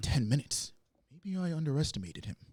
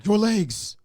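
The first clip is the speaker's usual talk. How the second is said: creepy ghost voice; 9 semitones higher, 8 dB louder than usual. Acted. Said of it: "creepy ghost whisperer voice".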